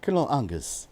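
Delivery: badly faked British "Colonel Angus"; broad "ah" in Angus, amateur British accent; attempted British accent. Shown as a demonstration. Streamer obliging the chat, clumsy British accent. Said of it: "I can't do a British accent".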